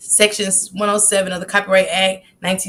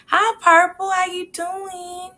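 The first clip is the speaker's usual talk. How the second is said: squeaky greeting; 11 semitones higher, slower than usual. Real, not acted. Greeting viewer in high voice.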